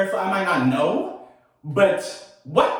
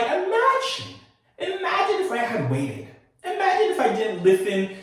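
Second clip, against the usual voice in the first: laughing; 9 semitones higher than usual. Real, not acted. Laughing disbelief.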